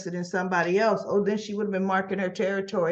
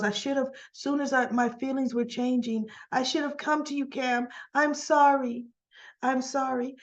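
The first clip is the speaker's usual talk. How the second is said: higher, pleading retelling; acted-out regretful confession; retold pleading apology; 5 semitones higher than usual. Recapper voicing Joss apologizing to Cam, pleading.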